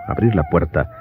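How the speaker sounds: usual speaking voice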